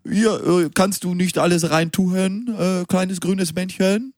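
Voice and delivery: put-on a deliberately poor French accent, drawn out; bad French accent. Asked by co-host, he tries a bad French accent. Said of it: "Kannst du das mit einem französischen Akzent sagen".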